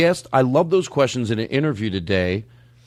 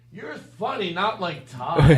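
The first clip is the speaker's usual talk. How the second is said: overheard background voice; 4 semitones higher, slower than usual. Retold or imitated. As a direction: mimic someone heard faintly behind a phone call. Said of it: "You just hear him in the background".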